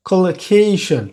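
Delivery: "Collocation" with a puff of air on KAY; aspirated stressed syllable. Shown as a demonstration. Teacher confirming the aspiration rule, "Collocation" with aspirated KAY. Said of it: "এই জন্য এখানে aspiration হবে".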